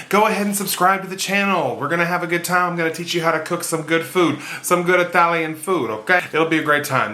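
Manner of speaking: mock Italian chef accent, overdone on purpose; horrible Italian accent. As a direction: put on a cheesy fake Italian accent to sell the cooking. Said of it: "That was a horrible accent".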